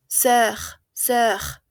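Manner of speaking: Sœur with o and e blended into one vowel; rounded oe vowel. Shown as a demonstration. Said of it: "Una O, E".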